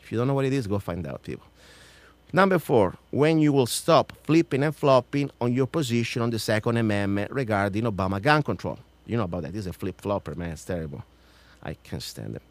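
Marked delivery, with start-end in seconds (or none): 2.3-8.8 pointed open-letter reading; emphatic public question; formal read-out challenge. Acted. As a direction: read it out firmly, like questioning a senator. Reads out numbered question.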